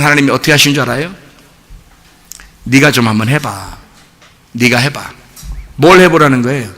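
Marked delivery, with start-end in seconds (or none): 2.6-5.0 quiet voice of God. Retold or imitated. God voiced, after question.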